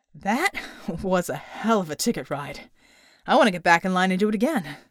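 laughing. A narrator's reading. Character laughs after ride.

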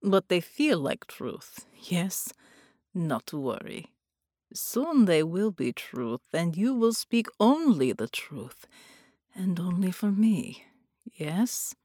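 slow, hushed villain voice; seductive sorcerer whispering. Acted. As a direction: breathe the words like a sinister lover.

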